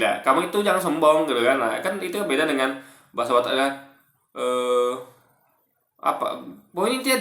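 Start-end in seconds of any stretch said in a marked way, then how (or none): 0.0-1.3 Madura accent. Shown as a demonstration. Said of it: "nah gitu".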